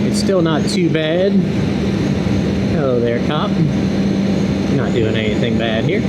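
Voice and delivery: helmet mic on the highway, wind roaring; talking inside a helmet over wind noise. Real, not acted. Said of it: "I do have a lot of wind noise in my helmet".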